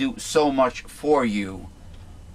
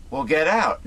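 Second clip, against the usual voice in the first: yelling get out again; retold yell; 5 semitones higher than usual. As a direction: shout them out. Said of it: "Yells at them and says".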